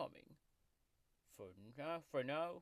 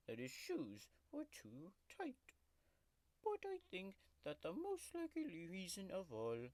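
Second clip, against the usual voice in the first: grumpy tiger mascot growling through a fake ASMR video; sulky tiger taking over the channel; tiger character voice; 5 semitones lower than usual. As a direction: play a cranky cartoon tiger throughout. Tiger character Oscar hosts the video.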